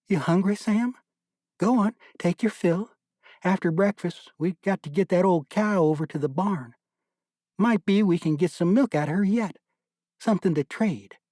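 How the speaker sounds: put-on mother coaxing nursing baby Sam, fond and cheerful; young mother talking to her baby. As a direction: coax him to feed, sweet and cheerful.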